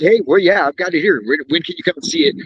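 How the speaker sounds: hurried, tumbling mock sales call; rushed phone pitch. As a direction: rush to book the appointment. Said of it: "Are you rushing through that phone call".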